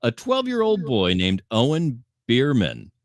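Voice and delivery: playful newscaster intro; news anchor read. Acted.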